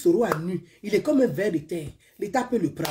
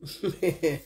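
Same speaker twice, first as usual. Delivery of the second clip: short low chuckle; brief real giggle; soft chuckle; 4 semitones lower, 5 dB quieter than usual. Real, not acted. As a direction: chuckle quietly to yourself. Giggling during her sign-off.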